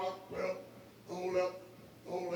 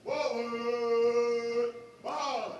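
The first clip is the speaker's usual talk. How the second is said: drawn out parade commands; 3 semitones higher, 5 dB louder, much slower than usual. Real, not acted. Drill leader calling commands.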